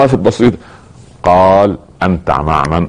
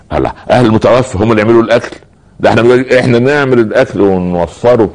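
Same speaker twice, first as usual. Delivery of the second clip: mock incredulous; 5 semitones higher than usual. Mocking people's funeral customs.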